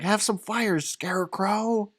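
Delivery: high, slow cackling Wicked Witch. Retold or imitated. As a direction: drag out Scarecrow like a witch. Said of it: "When the Wicked Witch says it, she's like".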